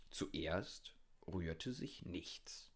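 very slow, soft near-whisper; hushed suspense. A narrator's reading. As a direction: drop to a slow, suspenseful hush. Hushed suspense after the shouting. (spannungsvoll langsam geflüstert)

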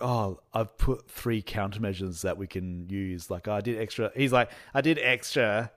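preen like a teacher's pet baddie; lightly voiced smug sidekick bragging; sniveling bad guy. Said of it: "a little sniveling bad guy".

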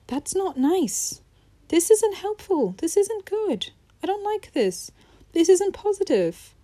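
hammed-up self-reprimand; mock scolding self. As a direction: scold yourself like a stern aunt. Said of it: "and be".

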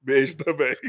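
usual speaking voice

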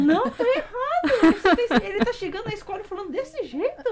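high, loud laughing correction; mock scolding. Daughter corrects mother's Japanese reading, mock indignant. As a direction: imitate an indignant child correcting mom, laughing.

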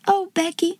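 high, soft, tender exclamation; touched cry. A narrator's reading. Girl hugging her friend, lump in throat, touched. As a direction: gently overcome with affection. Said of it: "cried out, with a queer little laugh".

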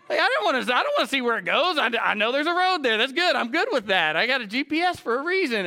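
loud, high-pitched comic protest; worked-up homebody protesting; mock exasperation. Mock protest at wife's exploring.

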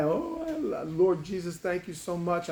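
acted tearful thanks; mock-tearful, overwhelmed prayer; starting to cry. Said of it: "now I'm starting to cry".

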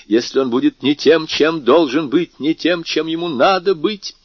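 put-on an anxious old lady insisting; old woman voice. Marquise voiced in story.

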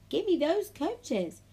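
high, loud, drawn-out order; huffy demand. A narrator's reading. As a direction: demand it crossly, stretching the words. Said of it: "huffed Emily".

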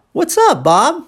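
"What's up, Bob" high on "up", then rising on "Bob"; question turned back. Shown as a demonstration. Maggie returning the question to Bob, high rising intonation. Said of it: "é a pergunta de volta pra ele".

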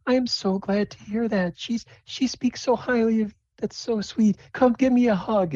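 high sweet motherly voice; gushing mother. Acted. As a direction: coo over your daughter's friend like a proud mom. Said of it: "And Phyllis like".

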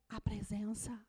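hushed, breathless whisper; awed whisper. Acted. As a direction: let it fall to a reverent whisper. Reverent answer.

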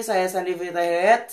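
Fitlah with a light l where the r of Fitra should be; says l for r. Real, not acted. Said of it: "ngomong R-nya agak cadel".

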